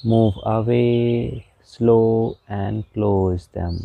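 slow, measured meditation guide with long pauses; guided meditation. Real, not acted. Meditation teacher guiding listeners through palm movements, slow guided meditation. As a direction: draw out the instructions, unhurried and even.

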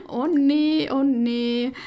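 ordinary delivery

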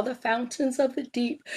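words stretched by a yawn. Real, not acted. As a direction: read it mid-yawn. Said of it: "excuse me, I don't know why I've been yawning".

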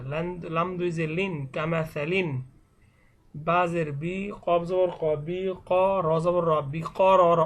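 measured letter-by-letter Quran primer reading; spelling drill recitation. Shown as a demonstration. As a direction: recite each spelling, then join the syllables. Spells Arabic words aloud as drill. (বানান করে টেনে টেনে পড়া)

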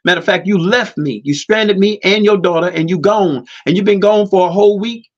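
angry wife. Retold or imitated. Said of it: "She said".

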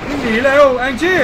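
panicked call to flee; urgent shout. Real, not acted. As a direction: yell it out in panic, high and loud. Fleeing danger in horror game.

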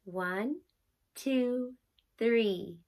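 counting while holding breath. Shown as a demonstration. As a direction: hold the breath, count slowly. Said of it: "breathe and count for three seconds".

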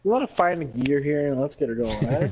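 mock Canadian accent. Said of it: "Are we getting chirped for a Canadian accent?".

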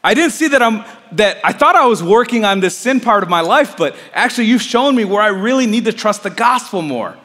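relieved realization. Retold or imitated. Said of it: "I felt relief".

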